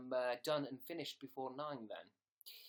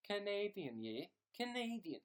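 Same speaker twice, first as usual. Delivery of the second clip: put-on higher-pitched try at a Canadian accent; attempted Canadian accent; 4 semitones higher than usual. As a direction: have a go at sounding Canadian. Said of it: "No, I can't do Canadian".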